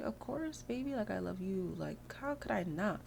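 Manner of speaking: soft, lilting sweet-talk; affectionate. Acted. Sim answers her partner's love declaration, affectionate.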